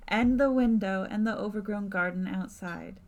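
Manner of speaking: measured narrator voice; story narration. A narrator's reading. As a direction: set the scene like a storyteller. GM narrates scene.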